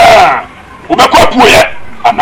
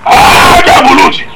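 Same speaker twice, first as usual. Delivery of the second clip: shouted catchphrase; 4 dB louder, slower than usual. Acted.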